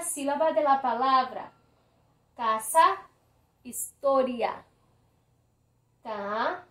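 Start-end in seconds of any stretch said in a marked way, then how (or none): 2.4-4.7 Casa, historia, weight on "ca" and "to"; measured examples, leaning on CA-sa and his-TO-ria; stress on penultimate syllable. Shown as a demonstration. Teacher showing llanas, "Casa, historia" stressed next to last. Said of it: "Es la penúltima".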